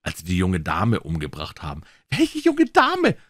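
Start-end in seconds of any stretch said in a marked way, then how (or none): 2.1-3.2 mild cried question. A narrator's reading. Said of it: "schrie Bollem".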